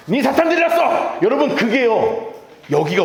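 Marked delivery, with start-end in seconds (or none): 0.1-1.2 high-pitched movie villain accusation; hammed-up drug-lord pastor outburst; 황정민. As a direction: hurl the famous film line, pitched high. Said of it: "그 중에 가장 유명한 대사가 뭔지 아세요?".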